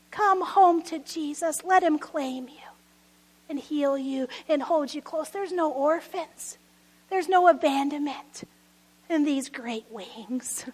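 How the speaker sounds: tender invitation. Acted. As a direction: draw them in quietly and tenderly. Tender altar call after preaching.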